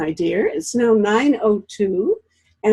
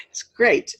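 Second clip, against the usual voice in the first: laughing whisper; 13 semitones higher than usual. Real, not acted. Laughing greeting to guest.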